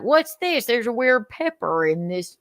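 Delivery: mock cop puzzlement. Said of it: "They're like".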